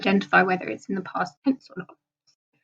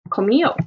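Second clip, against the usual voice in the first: "comió" stressed on the final O; 3 dB louder than usual. Shown as a demonstration. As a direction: land on the last vowel of "comió". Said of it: "the accent is on the O".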